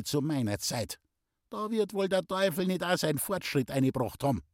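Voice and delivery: a mother lecturing, growing fervent; heated old mother. A narrator's reading. Traudl lecturing Pauli.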